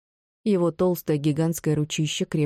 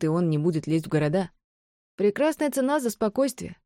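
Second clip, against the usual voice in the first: high, manic crazed woman; crazed villainess; 4 semitones higher than usual. Acted. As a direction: rant like a madwoman. Narrator voices mad Bron.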